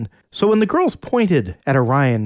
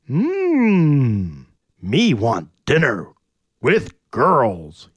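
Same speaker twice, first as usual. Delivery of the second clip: caveman Orion; much slower than usual. Acted.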